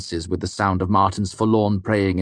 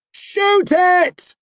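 urgent shout; 6 dB louder than usual. A narrator's reading. Urging friend amid storm.

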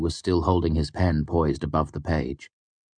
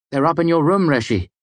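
much higher, louder cheerful voice; bright Bast; 10 semitones higher, 5 dB louder than usual. Acted. Bast cheerfully helping his master: high bright chirpy voice. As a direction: chirp it helpfully. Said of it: "Bast said brightly".

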